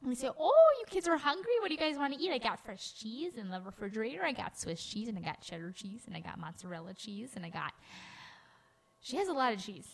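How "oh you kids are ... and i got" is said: Grandma Judy impression. Host imitates grandma offering the grandkids food, lightly voiced. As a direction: list the fridge like a doting grandma. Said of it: "grandma impersonation".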